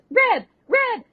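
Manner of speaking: high shouted call. Retold or imitated. Recapping the show, calling her friend's name. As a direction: yell the name across the room.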